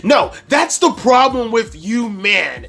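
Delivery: high, loud indignant ranting; mock an outraged customer lecturing men; imitated diatribe. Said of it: "She starts going on this fucking diatribe".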